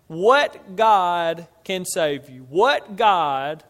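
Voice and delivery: loud, slow challenge from a king; defiant challenge. Retold or imitated. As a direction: throw down the gauntlet, punching each word. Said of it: "thrown down the gauntlet and said".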